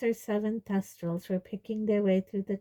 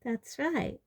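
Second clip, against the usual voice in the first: higher-pitched, softly pleased reply; happy, smiling; 7 semitones higher, 4 dB quieter than usual. A narrator's reading. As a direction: say it with a happy smile. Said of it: "smiling happily".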